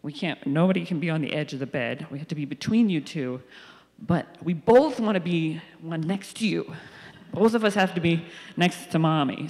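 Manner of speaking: put-on a mild take on two kids demanding the middle spot; kids insisting. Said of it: "They're like".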